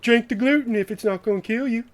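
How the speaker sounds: hammed-up Garrison dare; Mister Garrison. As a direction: push him to drink it, smugly. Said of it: "And he goes".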